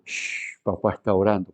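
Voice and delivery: hushing whisper. Retold or imitated. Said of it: "haya un".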